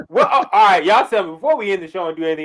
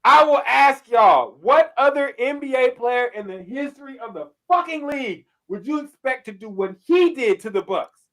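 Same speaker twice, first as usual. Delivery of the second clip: hyped rant; 7 semitones higher, 3 dB louder than usual. Real, not acted. Hyped rant about Butler's game.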